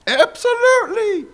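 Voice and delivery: a drawn-out, high, eager absolutely; eager yes. Retold or imitated. Pastor answering God with an eager, drawn-out, high yes. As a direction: gush it like the answer is obvious.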